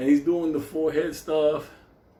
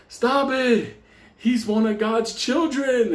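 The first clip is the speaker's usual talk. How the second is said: high urgent shout; 10 semitones higher, 4 dB louder, slower than usual. Retold or imitated. Priest shouting to stop Benny.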